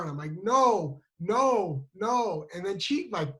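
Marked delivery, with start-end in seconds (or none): 0.4-2.5 mildly plaintive, higher no; retold tearful protest. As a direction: imitate a crying child's refusal. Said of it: "And then I start crying".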